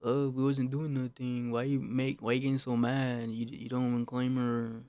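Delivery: drawn-out mock protest; mock bugging out. Friend defending himself to the speaker, mock bugging out. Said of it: "his friend was bugging out".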